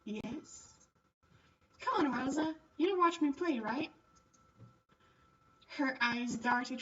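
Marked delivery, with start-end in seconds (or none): 1.8-3.9 put-on eager girl. Catherine urges Rosa.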